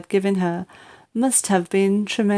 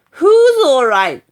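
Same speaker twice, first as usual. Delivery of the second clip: outraged yell; 6 semitones higher, 8 dB louder than usual. Acted. Grandma outraged.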